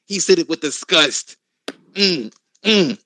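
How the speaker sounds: a touch of indignant online accuser; lightly put-on scandalized voice; mock outraged poster. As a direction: call out the crowd, faking shock. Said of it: "they'll clip it and retweet it".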